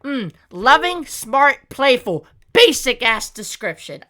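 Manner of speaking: scornful, irritated read-out; annoyed. Real, not acted. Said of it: "so annoyed right now".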